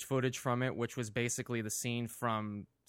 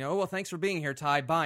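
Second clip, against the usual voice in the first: mock send-off; 7 semitones higher, 8 dB louder than usual. Retold interviewer's hurried send-off.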